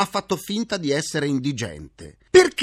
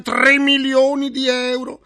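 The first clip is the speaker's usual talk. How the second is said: loud proclaiming; 10 semitones higher, 7 dB louder, slower than usual. Acted. Repeating the sum as proclamation.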